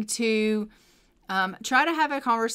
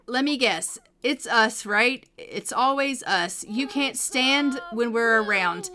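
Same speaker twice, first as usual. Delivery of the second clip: impish pestering. Acted. Son accusing mom of not wanting them around, lightly impish needling. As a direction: keep pestering, stretching the accusations a little. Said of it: "he's gonna, like, impishly pester her".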